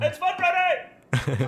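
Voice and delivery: slow, distant call away from the mic; in a tunnel. Shown as a demonstration. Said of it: "it just sounds like you're in a tunnel".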